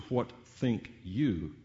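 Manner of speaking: slow WHAT, THINK, YOU, each weighted; stress on each word. Shown as a demonstration. Preacher showing how to emphasize three words, slow stress on each. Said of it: "emphasize each of the three words".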